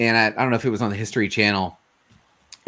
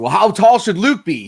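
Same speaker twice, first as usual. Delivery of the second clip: retold question; 7 semitones higher, 4 dB louder than usual. Retold question to company president.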